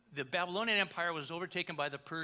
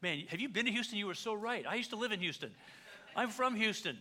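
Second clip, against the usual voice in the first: laughing agreement; 5 semitones higher than usual. Retold or imitated. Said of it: "people came out and said".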